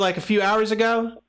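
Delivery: a friendly Southern caller, lightly done. Pretend. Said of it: "we'll go with the Southern voice today".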